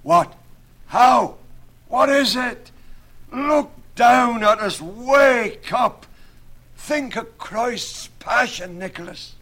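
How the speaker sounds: very high, loud, urgent shouting; slow, drawn-out high yell of alarm; rude crying out. A narrator's reading. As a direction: holler as if shaking someone out of a trance. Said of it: "cried out rudely".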